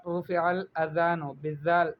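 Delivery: الاذان said with a clear dh sound, slowly; correct Arabic pronunciation. Shown as a demonstration. Teacher models الاذان with a dh sound, slowly. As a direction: model الاذان with ذال, not ز, for the student. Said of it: "صحیح تلفظ کے ساتھ".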